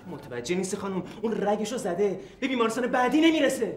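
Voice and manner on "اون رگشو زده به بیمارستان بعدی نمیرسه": loud desperate yell; furious outburst at the receptionist; angry shout. Acted. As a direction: shout it at the clerk. Man yells at receptionist.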